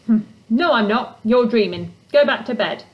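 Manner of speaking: gruff, annoyed voice from inside a tent; grumpy creature voice. Acted. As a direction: grumble it like a sleepy grouch.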